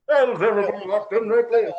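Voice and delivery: a hint of Walter's voice; imitating Walter's speech. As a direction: mimic Walter addressing the room. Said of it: "Walter's speech".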